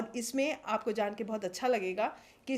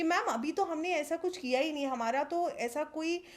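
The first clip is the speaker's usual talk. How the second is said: higher-pitched retold protest of innocence; clients' puzzled complaint; 5 semitones higher than usual. People telling the healer they did no bad karma, lightly voiced complaint. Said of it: "ऐसे लोगों को कहते हुए सुना".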